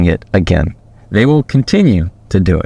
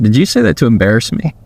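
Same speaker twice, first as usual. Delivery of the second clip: calm question; faster than usual. Shown as a demonstration. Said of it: "just calmly ask the question".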